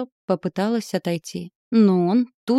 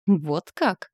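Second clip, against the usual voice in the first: displeased. A narrator's reading. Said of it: "процедил недовольно он".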